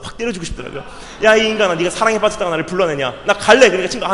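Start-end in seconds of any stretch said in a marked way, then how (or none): 1.2-3.7 loud and high, exasperated; impatient yelling. Retold or imitated. Pastor at 1:30am demanding his friend speak, loud. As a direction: yell it at a friend who won't talk.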